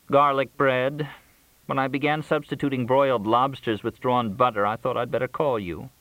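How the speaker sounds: high-pitched, food-obsessed caller; high, yearning character voice; Crystal craving food. A narrator's reading. Crystal lists foods she craves.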